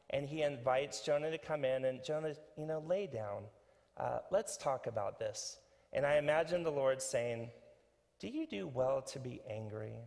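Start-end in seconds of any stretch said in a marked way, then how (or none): 2.9-5.6 lightly voiced, low-key therapist; calm counselor. God inviting Jonah onto the office couch, calm counselor. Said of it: "a counselor or, or someone". 8.2-9.9 softer, probing therapist question; calm counselor. Acted. God counseling an angry Jonah, soft counselor voice. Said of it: "Doesn't it sound like a".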